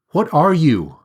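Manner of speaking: calling out. A narrator's reading. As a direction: shout up into the sky. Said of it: "he calls out".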